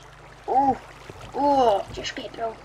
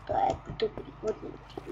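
whisper; 9 dB quieter than usual. Real, not acted. Quiet aside.

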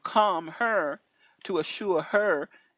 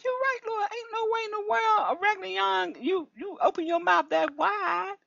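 very high, crying out in amazement; retelling a high amazed cry to the Lord; excited agreement; 14 semitones higher than usual. Retold or imitated. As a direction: exclaim to the Lord, overwhelmed. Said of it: "I said".

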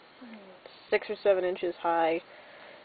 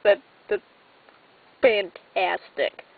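excited; 4 dB louder, slower than usual. Real, not acted. Delighted by the toy Dalek.

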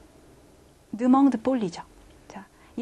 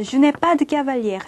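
slow model phrase; 3 semitones higher, 4 dB louder, much slower than usual. Shown as a demonstration. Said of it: "자".

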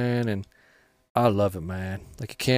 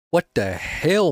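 drawn-out disbelief; 6 semitones higher, slower than usual. Real, not acted. Teammate blunder in game.

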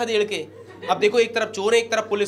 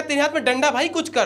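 higher urgent plea; 6 semitones higher than usual. Retold or imitated. Begging the traffic cop again.

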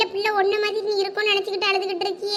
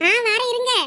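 raised, higher call from inside; 3 semitones higher, 3 dB louder than usual. Acted. Answering visitors at the door from inside, calling out.

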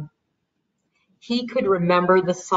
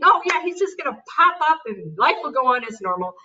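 higher-pitched, lightly imitated excitement; excited hope; 4 semitones higher than usual. Mother retelling her hopes for his recovery, mildly excited. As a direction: recall getting all excited, mildly hammed. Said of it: "you get all excited thinking".

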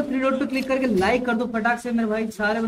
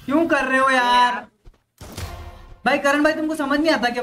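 exasperated complaint. Real, not acted. Gamer fed up with teammates' antics, exasperated complaint. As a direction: drag it out in frustration. Scolding teammates who keep misbehaving.

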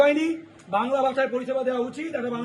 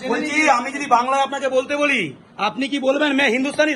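loud, measured challenge; real heated challenge, each word pressed out; confrontational; 4 dB louder than usual. Real, not acted. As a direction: put the question to the clerk forcefully. Confronting the clerk over Bengali.

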